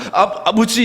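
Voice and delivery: hesitant, stumbling start into the call; mock doubtful call. Pastor imitating congregation's unconvinced call to God, mock doubtful. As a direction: imitate someone calling out without conviction. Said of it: "약간 의심스럽게 불러요".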